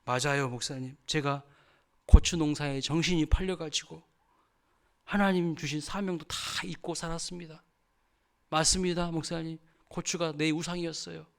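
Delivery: imitating a tearful confession, understated; a repentant deaconess admitting fault, pitch lifting. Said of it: "눈물을 뚝뚝". (울먹이는 듯한 고백 흉내)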